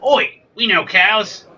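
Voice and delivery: badly faked Australian, drawn out; bad Australian accent. Dairy farmers who know cows, hammed-up Australian accent. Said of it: "I can't do an Australian accent".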